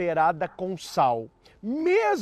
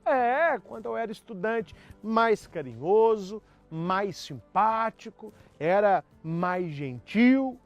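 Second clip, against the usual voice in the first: teasing wife; 4 semitones higher than usual. Retold or imitated. Wife teases about ex-boyfriend.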